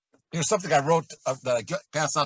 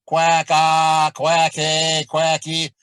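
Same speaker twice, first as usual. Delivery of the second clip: quick quack demo; 7 dB louder, much slower than usual. Shown as a demonstration. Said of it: "if you go".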